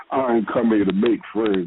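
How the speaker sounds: menacing, intimidating, very low voice. Retelling a face-off with a man, the speaker quotes him: imitating his intimidating low voice. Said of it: "he had that intimidating low voice too".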